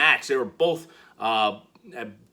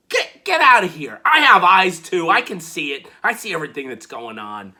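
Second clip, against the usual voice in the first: indignant retort. Retold or imitated. Johnny retorts to Theory.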